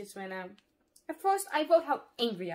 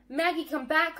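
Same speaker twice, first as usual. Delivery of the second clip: raised, higher parents' call; 6 semitones higher, 8 dB louder than usual. A narrator's reading. Parents to daughter pushing through crowd, calling out. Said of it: "our parents call".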